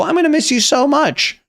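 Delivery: put-on high sweet girl voice; girly voice. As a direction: gush like a schoolgirl. Voicing girls in meme.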